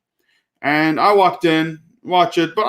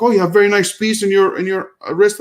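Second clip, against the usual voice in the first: flattering salesman; 5 semitones higher than usual. Retold or imitated. Salesman compliments the watch.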